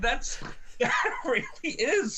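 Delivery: laughing through the words; breaking up with laughter. Real, not acted.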